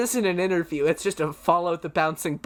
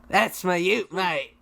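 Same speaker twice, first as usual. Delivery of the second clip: imitation Aussie accent; Australian accent; slower than usual. Shown as a demonstration. Guest copies the host's ute phrase, Australian accent. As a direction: echo it like an Australian mate. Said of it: "No, no, do it again".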